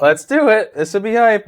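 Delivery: high hyped-up cheer, landing downward; pumped for the roll; excited. Real, not acted. Hyped again after laugh.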